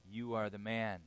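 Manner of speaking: low, soft, pointed accusation; accusing Nathan. Retold or imitated. Nathan pointing at David, low and quiet. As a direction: quietly drive it home. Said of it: "sticks his finger out in David's face and says".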